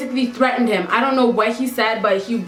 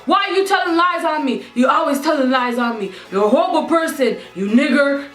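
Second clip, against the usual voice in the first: mock angry rant; 3 semitones higher than usual. Man shouting accusations.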